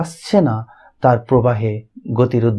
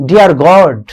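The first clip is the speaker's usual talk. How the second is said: "Dear God" said a bit louder, falling in thanks; grateful; 2 semitones higher, 5 dB louder than usual. Shown as a demonstration. Teacher showing the grateful reading, louder and thankful. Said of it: "with a sense of gratitude".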